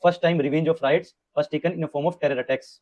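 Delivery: very slow, word by word, for notes; slow note-dictating read; slow dictation. Shown as a demonstration. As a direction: dictate so students can write.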